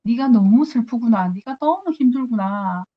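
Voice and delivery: lightly acted tender sympathy; gently aching, retold comfort; compassionate. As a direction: draw out the pity, as God consoling. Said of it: "굉장히 애달파서 보고 계시는구나".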